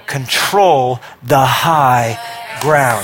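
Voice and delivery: a slow, shouted rallying call; slow preaching shout. Real, not acted. Preacher rallies the congregation with a slow shout. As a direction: drag out every word and shout it. Preacher drives home the point.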